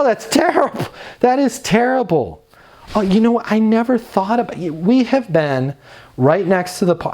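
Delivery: high, eager, sympathetic ums and ohs like a client is confiding in you; attentive listening noises. Shown as a demonstration. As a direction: show you're hooked on every word. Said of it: "use occasional listening noises like".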